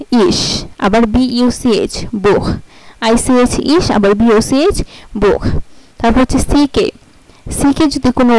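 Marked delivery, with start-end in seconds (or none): 0.1-2.5 "ইস" breathy, "বুখ" with a throaty kh; ich and Buch. Shown as a demonstration. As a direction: contrast the two ch sounds. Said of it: "যেমন আইসিএইচ".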